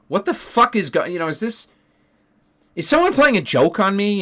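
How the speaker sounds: high, incredulous outburst at the counselor; retold disbelief. Teacher retelling his shocked reply to the counselor, high and incredulous. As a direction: pitch jumps up in shocked disbelief. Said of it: "And I was like".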